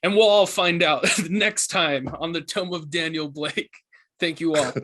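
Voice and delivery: a laugh breaks into the closing line; laughing sign-off. Acted. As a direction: wrap up the show still chuckling. Host sign-off while laughing.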